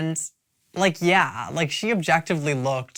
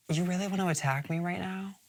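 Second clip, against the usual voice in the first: imitating Abora; 3 semitones higher, 6 dB quieter than usual. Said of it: "then Abora's like".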